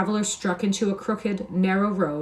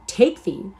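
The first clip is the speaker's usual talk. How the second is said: a louder, indignant snap of disbelief; sharp retort; 4 semitones higher, 5 dB louder than usual. Acted. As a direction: bite back at the insult. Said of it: "said Myles sharply".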